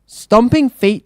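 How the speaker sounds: breathless high frightened townsfolk; panting. Acted. Fleeing farmers panting in fear, high and slow. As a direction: blurt it out of breath. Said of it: "they panted".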